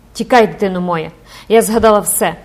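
loud frantic urging to flee; mother crying out in despair; desperate cry. Acted. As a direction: scream at your child to run. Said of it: "розпачливо скрикнула".

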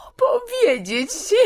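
very high, drawn-out witch squeal; sudden shriek. A narrator's reading. Witch to Aslan, asked about magic, shrieking. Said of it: "Głos czarownicy przeszedł nagle w pisk".

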